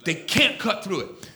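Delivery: low, hushed fatherly voice; quiet, deep fatherly confidence to a son; God as father. Retold or imitated. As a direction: drop down soft and deep, confiding. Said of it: "His daddy goes".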